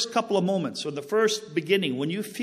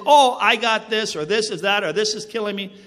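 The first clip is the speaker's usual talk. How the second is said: mock complaining sick person; 3 semitones higher, 7 dB louder than usual. Preacher mocking people who complain of symptoms, louder mock whine. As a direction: imitate someone fretting over symptoms. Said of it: "people feel this and they say".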